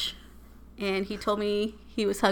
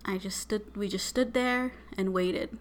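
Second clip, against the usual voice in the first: whispered; 6 dB quieter than usual. Retold or imitated. Patient waiting in line.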